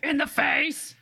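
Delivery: high gleeful echo; echoed shriek. Pretend. Second friend echoes the kill line, high and gleeful. Echoing the quote.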